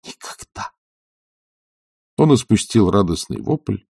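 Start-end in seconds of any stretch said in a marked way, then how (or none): 0.0-0.7 a soft breathy whisper; whispered quietly. A narrator's reading. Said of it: "прибавила тихо".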